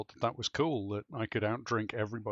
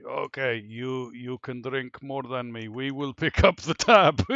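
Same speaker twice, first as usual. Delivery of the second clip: defeated sailor; 8 dB louder, slower than usual. Retold or imitated. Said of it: "these Russian guys were lying around".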